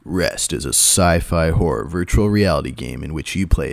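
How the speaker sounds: lightly dramatic trailer read; movie trailer voice. Pretend. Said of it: "do you wanna do your movie voice?".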